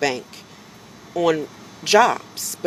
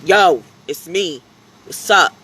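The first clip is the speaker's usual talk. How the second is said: slow, louder, easygoing "Yo"; casual greeting; 2 semitones higher, 6 dB louder, slower than usual. Retold or imitated. He answers the customer in his own casual voice. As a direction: drop the script and greet like a friend. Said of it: "I'm like".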